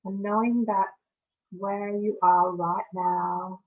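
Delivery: measured meditation guide with long pauses; guided meditation. Acted. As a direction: guide listeners through each breath, leaving space between phrases.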